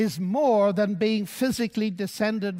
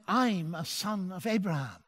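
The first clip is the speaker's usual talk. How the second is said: lowered voice; 3 semitones lower, 6 dB quieter than usual. Retold or imitated. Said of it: "I lowered my voice".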